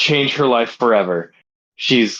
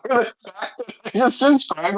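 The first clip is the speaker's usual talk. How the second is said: laughing; 9 semitones higher than usual. Real, not acted.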